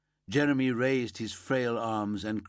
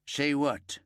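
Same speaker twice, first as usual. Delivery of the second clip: a touch of anger, pushed out a little louder; angry demand; 5 semitones higher, 3 dB louder than usual. Acted. Father demanding answers from the police, mildly angry. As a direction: snap the question back, mildly angry. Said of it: "anger in his voice".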